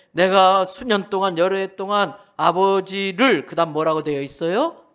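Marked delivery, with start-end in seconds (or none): 0.1-3.5 a louder, aggrieved son reciting the verse; stressed plea of a hurt son; loud complaint. Acted. Elder son complains to father. (서운한 큰아들의 큰 목소리)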